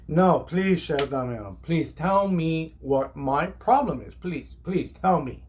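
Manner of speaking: slow, drawn-out sarcastic please; retold exasperated plea, stretched out; mock pleading. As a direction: dare him to explain, word by word. Acted sarcastic plea in quarrel.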